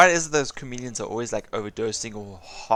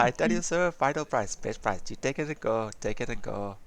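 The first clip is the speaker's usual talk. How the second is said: bad Indian-accented seller; badly put-on Indian accent, dropping lower as you close; 3 semitones lower, 5 dB quieter than usual. Streamer redoing the seller for friends, Indian accent. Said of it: "That's a terrible accent".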